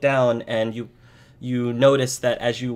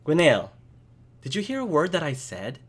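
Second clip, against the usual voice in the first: impatient friend; 5 semitones higher than usual. Acted. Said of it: "snaps her finger in front of you and said".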